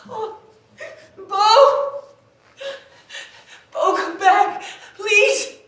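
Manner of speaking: high, tearful begging; crying plea. Acted. Lover calling Bo back, sobbing. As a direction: sob out his name and beg.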